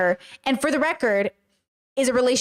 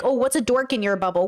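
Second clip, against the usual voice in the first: mocking chat's question. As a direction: parody the question as if it's silly. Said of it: "it's kinda asking me, like".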